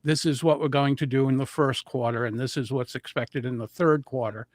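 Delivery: a lightly done flat rushed presenter, slowing at the end; monotone demo. Shown as a demonstration. Presenter showing nervous speakers droning, mild monotone read. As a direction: drone through the quarterly figures with no tune. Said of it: "speaking more like this and just".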